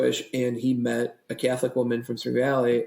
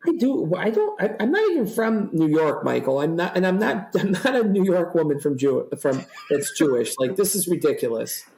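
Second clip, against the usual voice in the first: high, protesting mom; mom's protesting voice; 4 semitones higher than usual. Retold or imitated. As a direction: play the exasperated mom. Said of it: "She goes".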